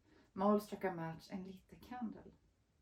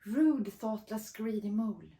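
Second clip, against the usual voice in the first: furious; 7 dB louder than usual. Acted. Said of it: "Fox's mind swirled furiously".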